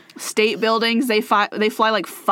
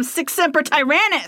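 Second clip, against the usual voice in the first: grand declaiming; 7 semitones higher than usual. Pretend. Declaiming the Latin motto.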